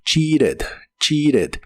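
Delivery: "cheated" with a tapped R, "chee-red"; casual American model of "cheated", tap in the middle; conversational T as R. Shown as a demonstration. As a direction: flap the T in "cheated". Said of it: "Es igual que en el pasado".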